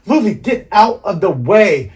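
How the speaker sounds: high, urgent call; acted warning shout. Voices crew shouting a warning.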